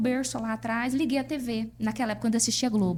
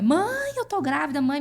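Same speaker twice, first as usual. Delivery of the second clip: Mãe called out much higher; overjoyed shout of the news; excited cry to mother; 4 semitones higher, 3 dB louder than usual. Retold or imitated. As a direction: burst out to her mother.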